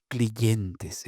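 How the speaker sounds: slow "clientes" said as "cliyentes"; a y inserted inside "clientes"; anti-hiatus consonant. Shown as a demonstration. Quoting a carpenter informant, inserted y. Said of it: "en lugar de cliente".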